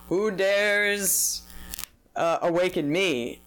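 a hint of a wrathful goddess rising; booming goddess. Goddess awakened, quoted.

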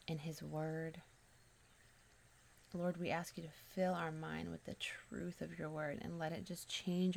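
measured spoken prayer with pauses between phrases. Real, not acted. Host prays to God for listeners, measured prayer. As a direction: pray aloud, easing down to the amen.

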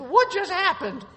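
high, loud, slow astonishment; drawn-out shocked question; imitated startled daughter. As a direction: mimic a stunned kid, pitch way up. Voices startled daughter after coffee spill.

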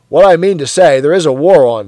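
loud, jovial bloke; a hearty colleague teasing; hearty Parsons. Acted. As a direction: boom it out matey. Parsons voiced in dialogue.

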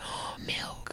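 whispered little realization; acted hushed reaction. Host replays first reaction to hearing about milk, whispering. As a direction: whisper it as if to yourself.

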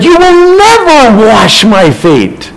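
a disciple flatly refusing his master; protesting Peter. Acted. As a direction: lean hard on never, drawn out. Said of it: "Peter protested".

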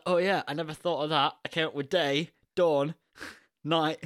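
a touch of a pleased filmmaker; George's reply. Pretend. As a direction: ham up George admitting he missed it. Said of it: "And I'd be like".

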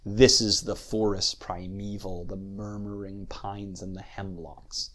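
"This is the forest primeval" recited in threes, first beat weighted; measured verse, slowing and softening to "hemlocks"; dactylic verse. Shown as a demonstration. Lecturer quoting Longfellow's Evangeline as an example, dactylic verse. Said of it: "You have that da, da, da".

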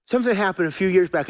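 rushed out quickly, a quick first try; hurried. Shown as a demonstration. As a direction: say it fast like you're short on time. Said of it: "I gotta hurry here".

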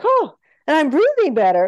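high, amazed "oh" with imitated Haitian accent. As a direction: imitate a relieved patient with a light Haitian accent. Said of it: "she says all this with a Haitian accent".

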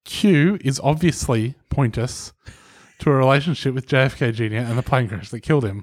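slow, deliberate read. Shown as a demonstration. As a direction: read it out slowly. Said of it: "read that first sentence again slowly".

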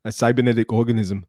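a hint of the Terminator, level and mechanical; lightly voiced robot killer quoting the film; Terminator impression. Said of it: "Calm down, Stu Arnold".

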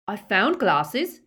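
nervous gulp, slow and loud. A narrator's reading. A cowering Snatcher speaks up to Greyback, nervous gulp. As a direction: blurt it out nervously. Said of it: "gulped one of the Snatchers".

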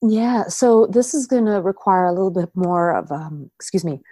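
rough voice from a chest cold. Real, not acted. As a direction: talk through a chest cold. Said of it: "getting over a bit of a chest cold".

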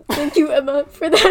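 mock attempt at holding it together; imitating stifled laughter. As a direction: imitate someone about to crack up. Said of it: "I'm seeing you go like".

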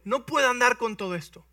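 can't move in this armor; a hint of awkward young David; uncomfortable David. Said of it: "David le dijo".

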